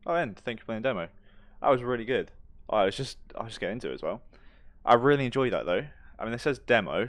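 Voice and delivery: loud, high enthusiastic praise; excited. Real, not acted. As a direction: gush about the game with energy. Praising the game demo.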